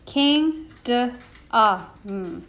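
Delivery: slow sounded-out syllables of "kingdom"; sounding out kingdom. Shown as a demonstration. Teacher sounding out a tricky word for pupils, slowly. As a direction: break "kingdom" into its sounds, king then dum. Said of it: "You hear that U sound".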